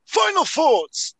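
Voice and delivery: very high, slow, drawn-out announcement of the segment; sing-song it like a cheesy show jingle, stretched out; mock jingle. Podcast host voices his own jingle for the last segment, high and slow. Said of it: "let me line up the, uh, the jingle".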